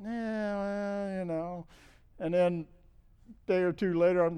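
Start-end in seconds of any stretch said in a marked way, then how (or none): 0.0-1.7 higher-pitched mock brush-off; dismissive grumble. Husband waving off what his wife has to tell him, dismissive. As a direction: grudgingly wave off the advice. Waving off wife's unwelcome advice.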